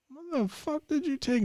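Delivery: high, slow alarmed question. Retold or imitated. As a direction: demand it in disbelief. Friend pale after taking drugs.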